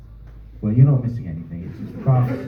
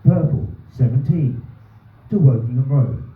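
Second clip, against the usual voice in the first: bus announcement. Retold or imitated. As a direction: read it out like the automated bus voice. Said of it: "this announcement goes".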